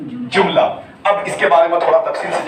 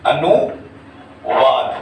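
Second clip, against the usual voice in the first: very slow, split into ANU and VAAD; syllable by syllable; 3 semitones lower, much slower than usual. Shown as a demonstration. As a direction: draw out each half with a pause between. Teacher breaks up new term.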